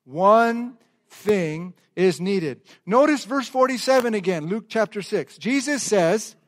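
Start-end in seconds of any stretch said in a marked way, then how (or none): 0.0-2.6 "One thing is needed" very slow and drawn out; slow unison. Shown as a demonstration. Pastor says subtitle slowly with congregation. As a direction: lead the church at a crawl. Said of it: "Would you say the subtitle with me".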